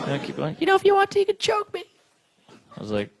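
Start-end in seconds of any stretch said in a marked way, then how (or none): 0.6-1.8 put-on very high coy girlish voice; girly voice. One-night stand partner, even higher girlish voice. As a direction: push the little-girl voice even higher.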